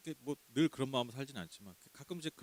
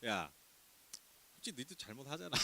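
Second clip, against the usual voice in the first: much softer offhand brush-off; dismissive God; 11 dB quieter than usual. Retold or imitated. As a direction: shrug off the victim's cry. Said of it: "이렇게 얘기하시는 게 아니라". (외면하는 하나님, 아주 작고 무심한 목소리)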